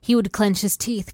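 ordinary delivery

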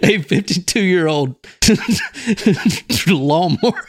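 high, laughing too hard to read; helpless laughter. Real, not acted. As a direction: fight through real giggles to get words out. Cannot read through laughter.

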